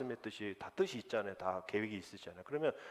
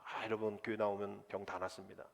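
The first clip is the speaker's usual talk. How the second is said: mock false pastor; 3 semitones higher, 3 dB louder than usual. Pastor mocking a heretic preacher promising riches. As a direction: sell empty promises, rising in pitch. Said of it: "만약에 그러한 목사 있으면요, 이건 조금 이상한 목사입니다".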